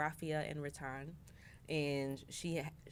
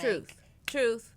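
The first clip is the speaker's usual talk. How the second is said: emphatic; 6 semitones higher, 9 dB louder than usual. Real, not acted. Emphatic agreement, loud.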